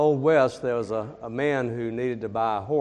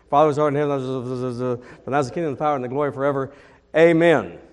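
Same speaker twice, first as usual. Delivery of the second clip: rushed prayer; 4 dB louder than usual. Retold or imitated. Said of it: "begins to pray it very quickly".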